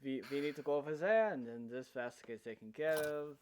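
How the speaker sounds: lightly put-on European-style accent; a hint of a mixed foreign accent; Salt's accent. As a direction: slip into a vague European character accent. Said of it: "Salt is fully just like".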